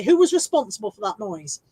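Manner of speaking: stern teacher. Retold or imitated. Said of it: "my teacher used to say".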